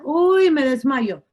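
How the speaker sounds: quejido lento de débil; desmayo fingido. Acted. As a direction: hazte el blandengue que se desmaya. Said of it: "lo hace estilo gelatina". (desfallecimiento fingido, alargando las palabras)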